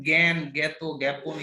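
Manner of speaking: জ্ঞান, জ্ঞাত, জ্ঞাপন with an "ae" vowel after a hard g. Shown as a demonstration. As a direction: say জ্ঞান as "gyan", vowel as in "cat". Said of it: "এ এর মতো উচ্চারণ".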